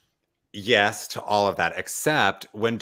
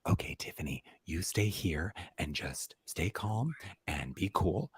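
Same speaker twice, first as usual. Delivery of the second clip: hushed, much softer conspiratorial whisper; mock secret whisper; 9 dB quieter than usual. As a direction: hush it like plotting in secret. Heather secretly instructing Tiffany.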